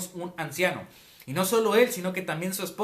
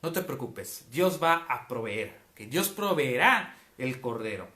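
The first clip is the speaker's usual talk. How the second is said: lower, slow, reassuring father; gently calm the worried son; a father steadying his son; calm reassurance; 4 semitones lower, slower than usual. Retold or imitated. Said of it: "fíjate la actitud de Abraham".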